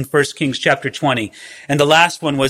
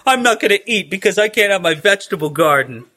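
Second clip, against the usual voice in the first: high, fast, laughing mock whine of a sulking child; laughing at a sulking king, mock child whine; whiny child; 3 semitones higher, faster than usual. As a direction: whine it like a pouting kid. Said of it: "like a little child pouting, weeping".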